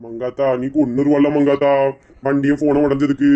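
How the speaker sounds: low, timid, guilty; low sheepish confession. Acted. Husband admits to his wife he feared her, low and sheepish. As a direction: mumble it like a caught child.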